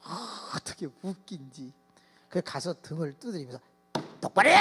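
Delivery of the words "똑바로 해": scolding. Retold or imitated. Pastor scolding a boy.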